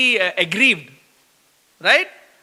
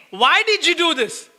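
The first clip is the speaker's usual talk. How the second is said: exasperated reproach; complaining; 7 semitones higher than usual. Shown as a demonstration. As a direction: throw it as a complaint, not a question. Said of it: "We are complaining".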